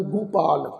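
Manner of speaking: ਗੋਪਾਲ said as gupaal, with an u after g; ਗੋਪਾਲ spoken low as gupaal; gu sound. Shown as a demonstration. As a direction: start ਗੋਪਾਲ on gu, not go. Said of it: "ਗੱਗੇ ਪੈਰ ਵਿੱਚ ਔਂਕੜ".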